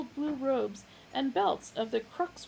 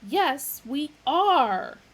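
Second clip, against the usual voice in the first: loud, higher; insisting; 6 semitones higher, 10 dB louder, much slower than usual. A narrator's reading. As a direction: insist firmly. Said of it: "insisted Magic Thighs".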